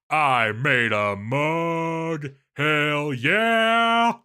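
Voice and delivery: slow proud declaration then a high loud whoop; triumphant shout over a mug; gleeful crafter yelling hell yeah; excited cheer. Acted. Excited diary entry exclamation.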